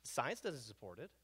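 hushed, unvoiced stage whisper; breathy conspiratorial aside. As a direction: drop to a whisper, as if telling a secret. Dramatic aside to audience.

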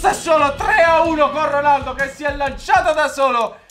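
high, excited running commentary; breathless italian goal commentary. Real, not acted. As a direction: still buzzing after the goal.

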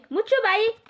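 a mother-in-law silencing her daughter-in-law, angry; angry snap. Acted. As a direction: cut her off sharply. Mother-in-law snaps at crying daughter-in-law.

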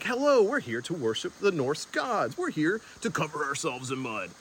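cheerful, upbeat greeting tone; chipper voice. Shown as a demonstration. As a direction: sound happy and chirpy, like a host. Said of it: "my happy, chipper self?".

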